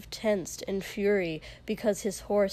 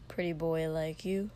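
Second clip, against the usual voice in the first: scoffing; 3 semitones lower, 3 dB quieter than usual. Acted. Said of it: "he scoffed".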